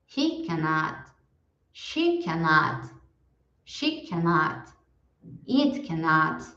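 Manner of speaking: slow, careful model lines for the class to echo; slow drill for repeating. Shown as a demonstration. Teacher slowly modelling each line for students to repeat. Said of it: "eu vou falar e vocês repetem".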